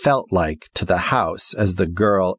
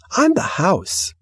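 slow thrilled reply; 11 semitones higher, slower than usual. Acted. House thrilled, near tears.

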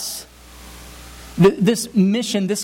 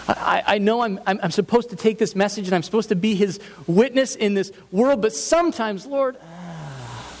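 higher-pitched weary plea ending in a sigh; burdened complaint; 4 semitones higher than usual. Acted. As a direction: plead under a burden, then let it out in a sigh. Acts out feeling burdened before God.

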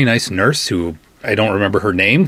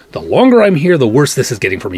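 louder and higher, fed-up outburst that rushes on; exasperated outburst; 4 semitones higher, 4 dB louder, faster than usual. Retold or imitated. At the bickering nurse and doctor, exasperated and loud. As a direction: snap at them to get on with it. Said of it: "And I'm like".

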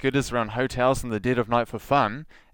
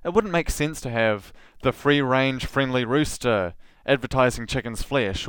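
normal talking voice

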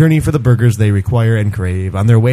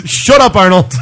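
put-on whiny child; 7 semitones higher, 5 dB louder than usual. Scolding toy.

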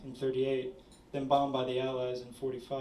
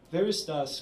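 louder questioning call in German; 3 semitones higher, 7 dB louder than usual. A narrator's reading. Woman calling from the hallway to a late visitor, calling out. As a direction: call it out with a raised voice. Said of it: "called a woman's voice from the hallway".

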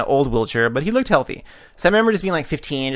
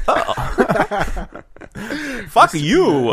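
hammed-up, higher-pitched bad British accent; terrible British accent; 7 semitones higher, much slower than usual. Man with a monocle answering back, badly faked British accent. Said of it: "that's the worst British accent ever".

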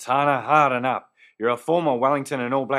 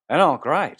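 brighter, louder forced "oh, great"; fake cheerful; 3 semitones higher, 4 dB louder than usual. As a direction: put on a fake welcome for the guests. Repeats greeting louder to guests.

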